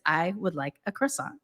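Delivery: put-on plain American-accented "croissant". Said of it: "with my American accent".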